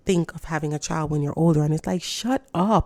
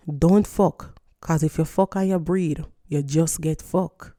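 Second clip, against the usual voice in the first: Jamaican Patois; slower than usual. Retold or imitated. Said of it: "I'm gonna say it, um, in Patois first".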